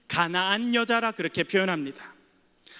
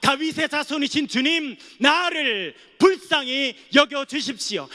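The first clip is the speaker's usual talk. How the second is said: crying out; 3 semitones higher than usual. Acted. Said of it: "이렇게 소리칩니다".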